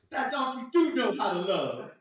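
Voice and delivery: audience remark. Retold or imitated. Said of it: "they're like".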